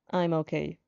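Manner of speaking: deadpan. Acted. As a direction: say it with zero interest. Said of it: "giving you a deadpan response".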